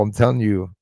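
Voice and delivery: ordinary delivery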